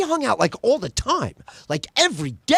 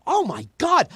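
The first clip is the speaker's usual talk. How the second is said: high shocked "oh my God" yell; mock shocked shout; 7 semitones higher than usual. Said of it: "And I go".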